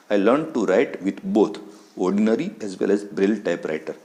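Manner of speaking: each English word read out slowly and carefully; slow textbook reading. Shown as a demonstration. Teacher reading the English text slowly to students. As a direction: read the line slowly for the class.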